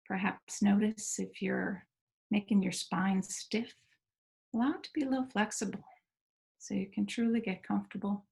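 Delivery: gentle guided settling-in, pauses between phrases; guided meditation. Real, not acted. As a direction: ease listeners into stillness, leaving space between phrases.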